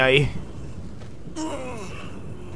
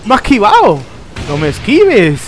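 higher, louder indignant exclamation; excited gamer outcry; 4 semitones higher, 4 dB louder than usual. Real, not acted. Gamer to the car that dodged them, excited outcry. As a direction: cry out at being dodged. Dodged during play, calling out.

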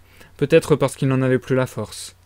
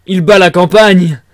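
put-on loud, slow drunken outburst; higher-pitched, boozy exclamation; tipsy shout; 4 semitones higher, 10 dB louder, slower than usual. A narrator's reading. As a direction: cry out with tipsy gusto, drawn out. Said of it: "d'une voix qui trahissait l'ivresse".

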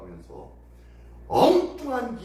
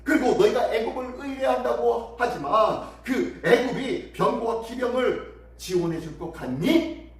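lightly hammed-up scornful questions; mocking challenge; 3 semitones higher than usual. Envoy doubts Egypt will send chariots, mild mockery. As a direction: goad them toward a rising question. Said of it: "라고 하면서 조롱하고 있는 거예요".

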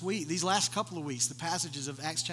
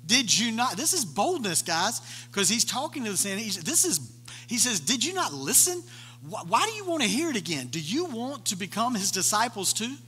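frustrated; 5 semitones higher than usual. Retold or imitated. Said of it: "we kinda see his frustration".

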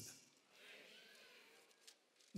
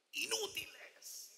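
high, soft, drawn-out put-down; mock exasperated king; 10 semitones higher, 10 dB quieter, much slower than usual. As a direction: draw it out high and quiet as the disgusted king. Voices the king dismissing his men.

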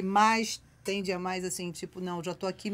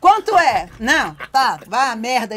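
loud retold cursing at a vendor; mock irritated shout; 11 dB louder, slower than usual. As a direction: bark it like a fed-up tourist. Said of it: "Ainda xingava a pessoa".

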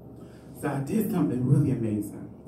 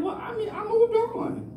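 way higher, airy fake-innocent voice; mock innocent. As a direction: play it sweet and innocent, pitched up. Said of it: "And I'm like".

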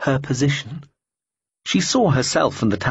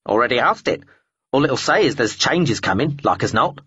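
grumpy talking bird. Acted. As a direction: grumble like an old crow. Bird voice continues.

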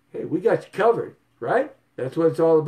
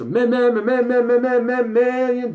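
high, stuttering drumroll on million; stuttered build-up; 7 semitones higher, 4 dB louder than usual. Pretend. Teasing viewers with a stuttered million. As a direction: stammer it out like a big reveal. Dramatic stutter reveal of price.

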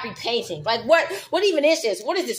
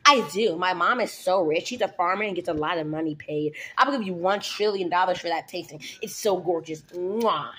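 put-on sassy goth girl; 5 semitones lower than usual. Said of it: "free talk like a dumb, sassy goth girl".

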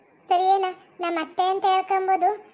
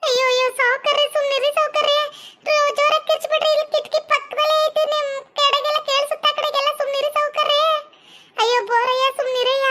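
alarmed hushing; 7 semitones higher than usual. Acted. Woman hushes the shouting landlord.

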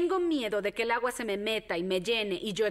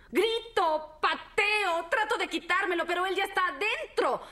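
pitched up high and urgent, fighting; reliving the terror, higher and breathless; panicked; 10 semitones higher than usual. Acted. Girl recalling the attack, high and panicked.

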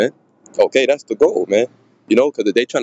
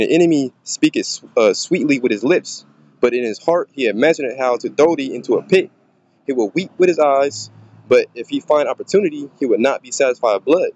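scripture reading; 3 semitones higher than usual. Acted. Reads scripture aloud.

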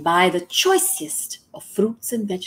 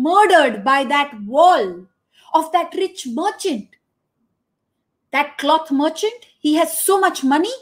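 higher, louder complaining plea to a king; aggrieved brother; 7 semitones higher, 4 dB louder than usual. Acted. Thief's brother complains to the king, higher and louder. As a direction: demand justice for your dead brother.

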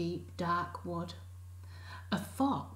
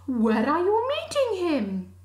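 higher, louder owl; 10 semitones higher, 9 dB louder than usual. Acted. Owl asking where, high and loud. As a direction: hoot the question.

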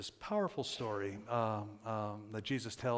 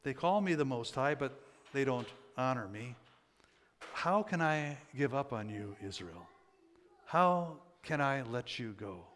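Scripture reading; 2 semitones higher than usual. Acted. Preacher reads God's lament over Israel to congregation, measured Scripture reading.

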